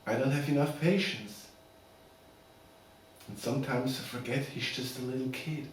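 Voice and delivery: soft, measured, with long pauses; subdued heartfelt plea. Acted. Father pleading to keep his son Billy, subdued and heartfelt. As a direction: quietly make your case as a loving father. Father's monologue in custody case.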